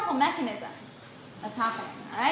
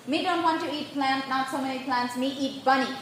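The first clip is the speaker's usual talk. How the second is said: put-on caveman talk in an Indian accent; playful caveman with Indian accent. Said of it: "My caveman has an Indian accent".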